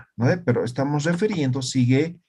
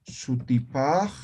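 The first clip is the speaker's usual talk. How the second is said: very slow dictation; much slower than usual. Shown as a demonstration. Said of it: "Y yo digo".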